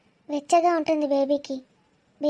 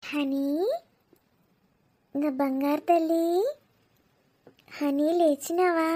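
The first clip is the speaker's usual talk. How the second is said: put-on slow, tender call to a baby; honey-sweet baby wake-up; sweet cooing; slower than usual. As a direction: gently coax a baby awake. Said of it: "honey అని ఎంత ముద్దగా వెళ్తాంది".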